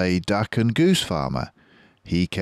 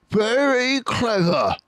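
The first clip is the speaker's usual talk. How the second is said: much higher, slow sarcastic voice; Bunce sarcastic; 3 dB louder than usual. Acted. Bunce mocking Bean's plan, high sarcasm. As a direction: drip with sarcasm. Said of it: "said Bunce".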